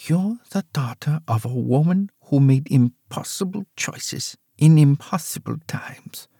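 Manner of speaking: mother tells daughter the truth; old mother, sorrowful. Acted.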